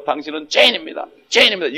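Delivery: retold accusing proclamation, rising in force; imitated proclamation. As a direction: call it out like a street evangelist. Retells missionary proclaiming to the street.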